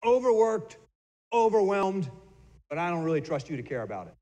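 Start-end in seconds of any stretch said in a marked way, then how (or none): 0.0-2.1 each word pushed louder, higher; emphatic list. Shown as a demonstration. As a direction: hit each word of the acronym. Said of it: "good stands for gloomy".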